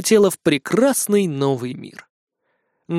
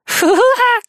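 laughing; 6 dB louder than usual. Acted. Хелен хохочет над Марком.

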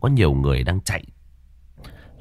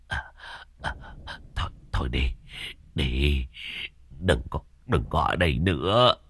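hushed urgent warning; 4 semitones lower, 8 dB quieter than usual. Acted. Master urging woman away, frightened.

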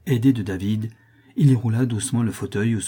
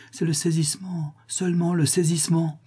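high, whispery voice; hushed reassurance; 9 semitones higher than usual. A narrator's reading. Clémence reassuring the father over his fainted daughter, hushed. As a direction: soothe him in an airy near-whisper.

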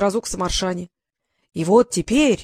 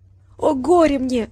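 breaking falsetto; 5 semitones higher, slower than usual. A narrator's reading. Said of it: "срывающимся фальцетом воскликнул Пёся".

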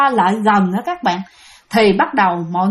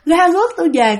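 higher, repetitive haunting cry; insistent ghostly calling; 5 semitones higher than usual. Retold or imitated. Dead man calling wife and child over and over, ghostly wail. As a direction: keep calling like a lost spirit pleading. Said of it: "Mà kêu hoài luôn".

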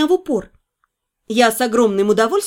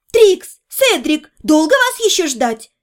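calling out; 2 semitones higher, slower than usual. Acted. Calling through the door.

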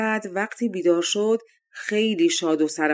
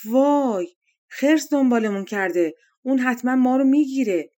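louder, higher panicked cry of a princess; frightened cry; 5 semitones higher, 3 dB louder than usual. Acted. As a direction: cry out in terror as the bear gives chase. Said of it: "از ترس داد زد".

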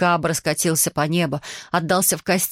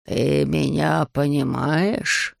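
low, very slow wondering dragon voice; surprised dragon; 3 semitones lower, much slower than usual. Acted. Dragon Ryuji amazed the girl understands him, low and slow. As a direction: draw it out in low astonishment. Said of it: "в удивлении подавшись назад".

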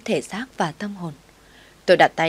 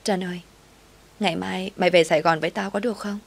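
a hint of a sob held back; choked up. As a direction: swallow the tears as you ask. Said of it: "Tôi nghẹn ngào trả lời".

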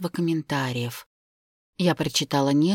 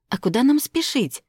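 indignant; 8 semitones higher, 4 dB louder than usual. Acted. Indignant question.

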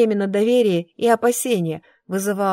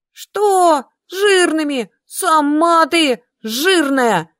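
much higher, loud, cry in the voice; outraged shriek; 8 semitones higher, 5 dB louder, much slower than usual. A narrator's reading. Insulted witch screams back at the brunette, outraged shriek. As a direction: screech in wounded fury.

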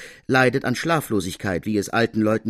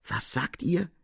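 higher-pitched shocked question, no real shout; mild shocked cry; 6 semitones higher, 3 dB quieter than usual. A narrator's reading. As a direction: cry out in disbelief, understated. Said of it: "schrie die Scuderie". (entsetzt, verhalten aufgeschrien)

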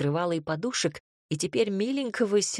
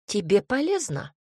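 scoffing; 4 semitones higher than usual. Acted. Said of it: "фыркнула она".

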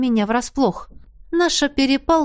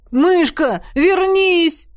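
loud call after her, rising high; 7 semitones higher, 4 dB louder, much slower than usual. A narrator's reading. Елисей calls after the fleeing Янина, loud call. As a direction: shout after her into the empty yard. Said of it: "прокричал в пустоту королевич".

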